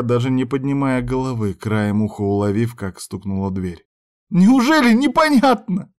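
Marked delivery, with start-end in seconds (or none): 4.3-5.9 very high, loud tearful scream; hysterical yell. A narrator's reading. Heroine screams at the intruder, tearful. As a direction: shriek it in despair.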